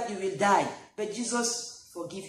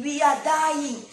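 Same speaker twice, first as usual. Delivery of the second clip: mock panic; 6 semitones higher, 7 dB louder, slower than usual. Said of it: "They, they started crying".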